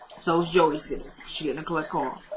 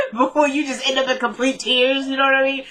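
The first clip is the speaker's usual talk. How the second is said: higher-pitched, laughing through the words; laughing while talking; 7 semitones higher than usual. Real, not acted. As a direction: talk through a laugh about nearly crying. Tearful recap, laughs through it.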